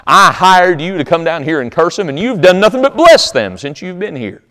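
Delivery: acted angry king, pitch climbing; indignant scolding. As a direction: berate a hired man who failed you, mildly hammed-up. Balak scolds the prophet he hired.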